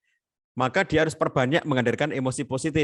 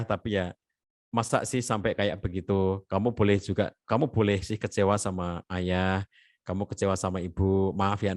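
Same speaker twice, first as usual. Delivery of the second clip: gentle parent; 3 semitones lower than usual. Shown as a demonstration. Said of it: "communicate the limit".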